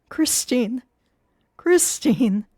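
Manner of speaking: loud despairing calls; anguished calling for her. Acted. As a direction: call into the dark pit. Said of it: "he moaned".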